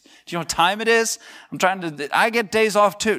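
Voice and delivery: high-pitched, playful exasperation; mock irritation. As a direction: complain like someone woken by a late call. God complains about late call.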